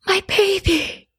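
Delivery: high, slow tender coo; tearful whisper. A narrator's reading. Mother greets her revived son, slow tearful murmur. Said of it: "whispered my mother".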